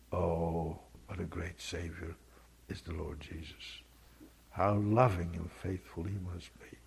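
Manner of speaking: softly whispered worship, slowing down; hushed hymn recital. Acted. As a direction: breathe the hymn words like a private prayer.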